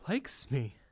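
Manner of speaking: unvoiced secret whisper. Bellboy wondering if Trump likes him, whispered. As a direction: breathe it like a secret crush.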